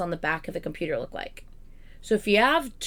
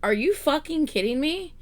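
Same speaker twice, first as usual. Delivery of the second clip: pitched up in mock outrage; retold angry disbelief; 6 semitones higher than usual. To the Geek Squad guy, higher mock outrage. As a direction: replay the fury with a higher voice. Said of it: "I was like".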